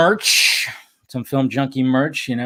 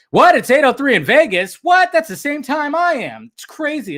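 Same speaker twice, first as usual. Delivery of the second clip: high, incredulous disbelief at the time; mock surprise; 13 semitones higher, 4 dB louder than usual. Real, not acted. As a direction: sound amazed, pitch jumping up.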